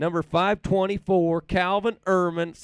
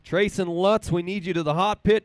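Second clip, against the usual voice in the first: calling the crew; 4 dB louder than usual. Real, not acted.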